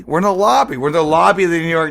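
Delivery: retold indignant protest. Retelling a protest to a guy who shoulder-checked him, indignant. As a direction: act out an incredulous complaint.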